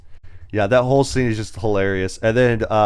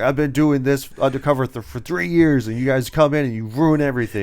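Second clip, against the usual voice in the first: mock indignant complaint; 4 semitones higher than usual. Undercover cop blames colleagues for ruining everything, mildly indignant. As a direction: play a put-upon cop, lightly aggrieved.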